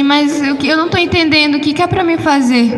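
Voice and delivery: puzzled protest. Retold or imitated. Retelling her confusion to the angel.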